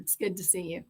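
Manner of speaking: normal talking voice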